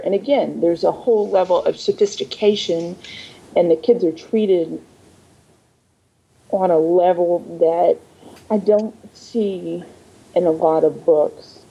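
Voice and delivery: muffled, hollow mic sound; like talking from inside a tunnel; entering a tunnel. Real, not acted. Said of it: "you're sounding like you're in a tunnel or a coffee can suddenly".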